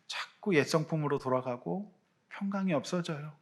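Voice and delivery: quiet, earnest pleading with God; soft reflective prayer. Pretend. Preacher modelling a humble prayer to God, softly. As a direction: hush it down, partly whispered.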